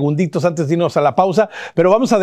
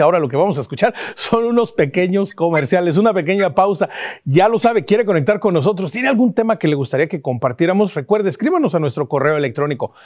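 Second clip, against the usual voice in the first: lively host plugging socials before the break; upbeat promo read, rising at the sign-off; show break promo. Acted. Host tells viewers to follow before the commercials, upbeat promo read.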